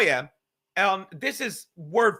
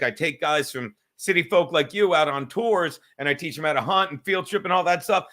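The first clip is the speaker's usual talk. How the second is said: retold hunter; 5 semitones lower than usual. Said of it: "He's like, he's like".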